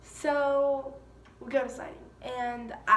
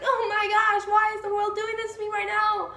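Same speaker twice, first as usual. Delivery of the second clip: retold wailing; 10 semitones higher, 7 dB louder than usual. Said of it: "literally bawling my eyes out".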